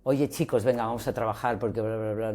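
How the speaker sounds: rushed bossy opener. Shown as a demonstration. Coach imitates a boss rushing the team, fast and pushy. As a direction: hurry the team into work. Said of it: "empezar una reunión en azul".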